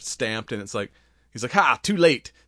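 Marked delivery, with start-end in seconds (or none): 1.5-2.3 gloating villain. Retold or imitated. Villain gloating in retold scene.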